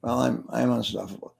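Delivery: mild, unconvinced mumbling reluctance; imitating a timid, hesitant audience member; half-hearted. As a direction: say it without really meaning it. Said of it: "Don't suck your thumb".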